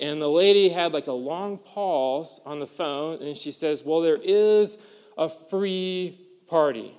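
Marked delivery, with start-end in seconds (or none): 3.8-6.9 mock deadpan clerk. Bowling lady reveals free party.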